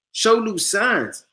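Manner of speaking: scripture phrase stretched out slowly; savoured reading. Shown as a demonstration. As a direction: Show new signs drawn out slowly. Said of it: "I can't stop reading that".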